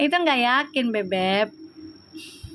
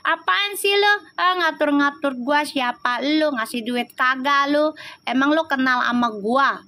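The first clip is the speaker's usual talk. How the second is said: mock angry retort. Imitating an unawakened person angry at advice, mock huffy retort. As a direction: imitate someone annoyed at being told what to do. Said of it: "pastikan dia marah-marah".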